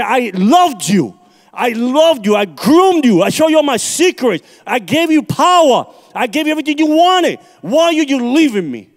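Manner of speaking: a hint of a wounded devil begging him to stay; devil pleading. Preacher voicing the devil pleading in hell, lightly acted wounded devil.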